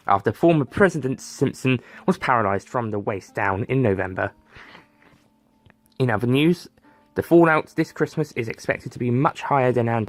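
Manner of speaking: brisk, bright broadcast delivery of the top stories; news anchor read. Acted. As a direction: read it like a morning news presenter. News anchor Tim Nuts reads bulletin.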